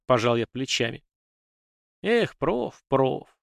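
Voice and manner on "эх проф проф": rueful sigh. Acted. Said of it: "сокрушённо вздохнул Вова".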